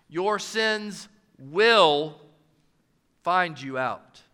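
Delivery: very slow "Your sins will", "will" drawn out, then a low "find you out"; stress on WILL. Shown as a demonstration. Preacher trying the emphasis on "will" in the verse. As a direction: stretch out "will" as a promise. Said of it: "No matter where you place the emphasis".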